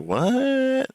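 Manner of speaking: high squeaky disbelief; shocked what. Retold or imitated. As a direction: blurt it out in shock. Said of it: "I was like".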